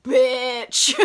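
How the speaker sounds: short hammed-up shouted insult; mock shout. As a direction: spit the word out like an offended lord. Clifford reacts to gossiping ex-wife.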